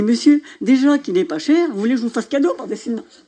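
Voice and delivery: the shopkeeper laughs at a ridiculous offer, laughing. Retold or imitated. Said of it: "Le gars commence à rigoler".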